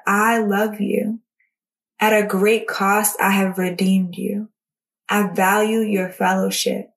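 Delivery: measured reading aloud with spaced pauses; devotional reading. Acted. Jesus pleading gently with a neglectful believer, measured read-aloud. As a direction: read each sentence out deliberately, letting it settle.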